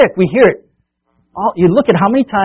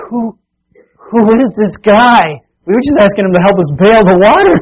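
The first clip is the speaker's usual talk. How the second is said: awed disciples; 4 semitones higher, 4 dB louder than usual. Acted. Frightened disciples asking each other about Jesus, stunned. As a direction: ask it in shaken disbelief. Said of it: "'Cause they're like".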